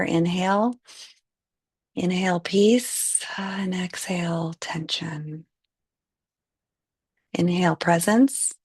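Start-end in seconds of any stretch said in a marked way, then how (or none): 3.4-5.5 breathy whisper on the exhale; whispered exhale cue. Acted. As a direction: let the words out on the breath, unvoiced.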